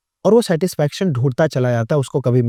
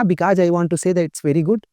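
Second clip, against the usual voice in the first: Indian accent; 2 semitones higher, much slower than usual. Shown as a demonstration. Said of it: "Indian accent है".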